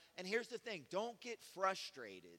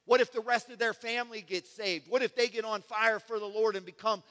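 rising, louder hopeful preaching; voice of faith; 5 semitones higher, 11 dB louder than usual. Retold or imitated. Preacher voicing faith's hopeful answers, building louder and higher. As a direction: build each what if into bold hope. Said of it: "But faith says".

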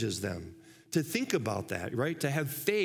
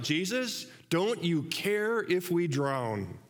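mock panicked cry; 3 semitones higher, slower than usual. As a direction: act out the frightened disciples calling for help. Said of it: "They shouted out".

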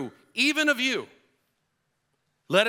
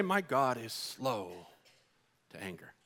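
quiet pondering; 5 semitones lower, 8 dB quieter than usual. Shown as a demonstration. Preacher leading congregation to ponder quietly, hushed. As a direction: let it sink in, unhurried and hushed. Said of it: "let's say that quietly to ourselves".

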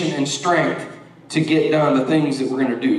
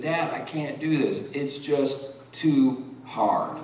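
tearful; 6 dB quieter, slower than usual. Retold or imitated. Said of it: "through his tears and through his crying".

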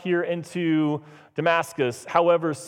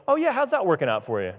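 quick, lightly mocking parent; sarcastic parent; 3 semitones higher, faster than usual. Parent to a little child, lightly sarcastic. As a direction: imitate a parent's knowing jab. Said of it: "If your parents ever said that".

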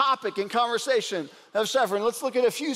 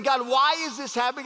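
a touch of pleading protest, slightly raised; mild lament; 2 semitones higher than usual. Retold or imitated. Preacher voicing a lament poem's protest, mild pleading. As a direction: ask God why, gently pleading. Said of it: "It's saying".

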